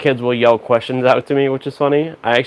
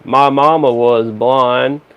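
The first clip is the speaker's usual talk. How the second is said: put-on, slow Southern accent; 3 dB louder than usual. Retelling a stranger's line outside a restaurant: Forrest Gump voice. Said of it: "in the most spot-on Forrest Gump impression".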